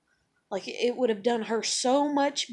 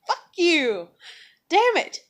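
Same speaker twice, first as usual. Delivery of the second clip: loud, higher burst of swearing; frustrated cursing; 8 semitones higher, 8 dB louder, slower than usual. Acted. Woman venting at brick walls, frustrated outburst. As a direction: curse out the obstacles in your way.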